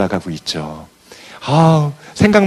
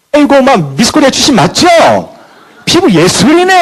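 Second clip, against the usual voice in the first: much higher, sugary buttering-up voice; fawning flattery; 13 semitones higher, 5 dB louder than usual. Retold or imitated. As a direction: lay on the flattery in a high sweet tone. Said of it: "목소리 톤 막 쏠쏠쏠쏠로 해가지고".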